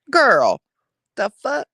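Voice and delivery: disbelief. Real, not acted. Reacting in disbelief.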